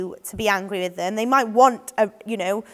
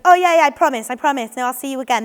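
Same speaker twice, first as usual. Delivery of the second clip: eager false promise; 3 semitones higher, 5 dB louder, faster than usual. Shown as a demonstration. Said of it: "you need to make sure you don't".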